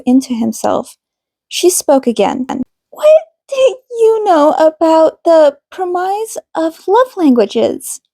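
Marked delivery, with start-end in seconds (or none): 2.9-8.0 higher, measured counselor voice; calm therapist. A narrator's reading. Counselor Minami addressing the couple in session, composed and higher. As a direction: speak like a gentle, professional marriage counselor.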